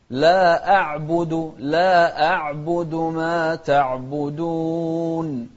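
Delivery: لا أعبد with a sharp glottal stop on أ; clear hamza. Shown as a demonstration. Teacher showing the clear hamza. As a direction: cut cleanly into the أ of أعبد. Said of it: "شوف الهمزة".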